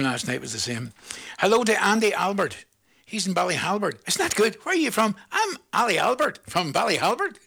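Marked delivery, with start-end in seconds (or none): 5.3-7.4 a playful put-on voice, higher; put-on caller voice. Host imitating a caller's rhyming name, playful put-on voice. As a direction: tease the rhyming name in a mock voice. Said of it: "Are you allowed to talk like that?".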